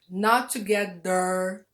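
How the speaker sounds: together with a hard t for th, not tugetter; wrong t in together. Shown as a demonstration. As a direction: say together with t, a mistake. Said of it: "It doesn't exist".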